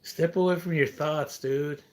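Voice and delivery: loud and scornful, calling them out; loud angry rant. Real, not acted. Berating viewers who mocked him, loud and angry. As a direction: chew them out, loud and disgusted. Ranting loudly at online commenters.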